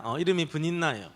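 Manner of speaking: usual speaking voice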